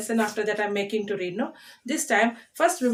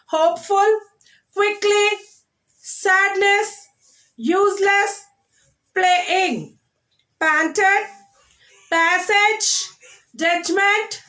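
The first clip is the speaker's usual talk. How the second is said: high, measured word drill from "Hopeful" to "Judgment", first syllables stressed; 8 semitones higher, 4 dB louder, much slower than usual. Shown as a demonstration. Teacher drills children on two-syllable words, stressing first syllables. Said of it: "we are stressing the first syllable".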